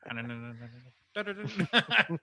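rapid "na-na-na" nonsense babble; Chevy Chase. Retold or imitated. Quoting a golfer's putting routine, playful imitated babble. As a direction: rattle off putting noises, rising on the da's. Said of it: "good old Chevy Chase".

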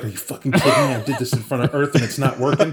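incredulous, laughing through the words; exasperated half-laugh; laughing disbelief. Retold or imitated. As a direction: laugh at your own failed ritual. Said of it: "and he's like".

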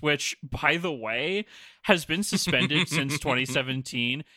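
sneering fake sweet voice; mean girl voice. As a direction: read it like a catty mean girl. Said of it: "I'll go with more of a mean girl voice for him".

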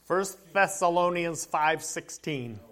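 slow, deliberate reading-out of the reference; careful and slow. Real, not acted. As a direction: say the hard name slowly. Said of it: "I always have to say that Thessalonians slow".

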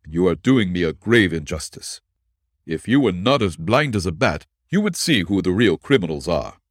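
even, measured protest of innocence; a falsely accused man staying calm; calm and steady. Acted. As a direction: keep it level and composed. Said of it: "pronounced in a calm and steady tone".

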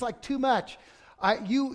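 ordinary talk, nothing marked

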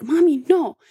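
lightly voiced little boy protest; a hint of a child's whine. Mother imitating her angry son.

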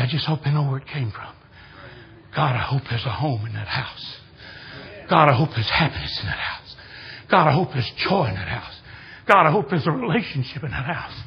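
low, earnest praying voice; retold prayer. Preacher prays for the people in that house, retold prayer. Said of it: "pray for those people".

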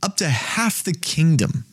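high, giddy voice of a lovestruck king; gushing king. Retold or imitated. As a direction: ham up the king overjoyed to see her. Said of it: "he's like".

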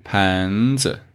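子 drops under 盘; neutral tone demo. Shown as a demonstration.

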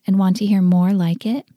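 clear, forceful podcast promo; promo read. Real, not acted. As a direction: step out of the tale and pitch the website. Sponsor message break in story.

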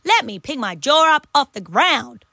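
hammed-up sarcastic amazement. Teasing co-host about having no mates, sarcastic. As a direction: lay on the fake disbelief. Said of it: "That's enough sarcasm".

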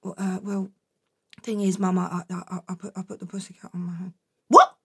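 put-on boy confessing to mum; whispered confession. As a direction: barely dare to say it. Jack confessing, scared.

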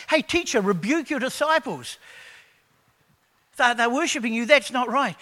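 the Pharisees object to the worship, loud and indignant. Acted. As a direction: protest loudly like affronted Pharisees. Pharisees complaining to Jesus.

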